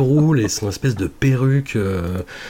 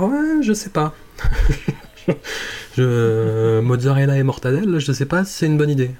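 hammed-up Italian film crew voice, pitched up; a lightly played Italian accent; mock Italian accent; 4 semitones higher than usual. Someone on set mocking the Italian accents. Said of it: "il y a eu personne sur le plateau pour dire".

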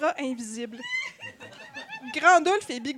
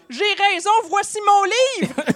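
shouted magic spell; 6 semitones higher, 9 dB louder than usual. A narrator's reading. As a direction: cry it out as a mock spell. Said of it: "criait la formule magique". (formule magique criée)

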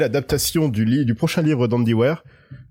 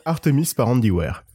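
school recitation. Shown as a demonstration. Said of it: "On dirait que tu vas réciter une poésie en sixième".

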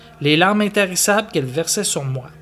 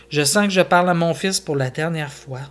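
1 painful smile. Acted. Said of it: "avec un sourire douloureux".

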